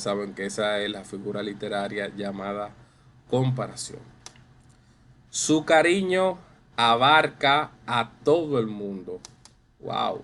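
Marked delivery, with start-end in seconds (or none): 5.3-9.2 lively read-aloud of a classroom example; expressive reading. Shown as a demonstration. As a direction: read out a bit louder and higher. Teacher reads example sentence expressively.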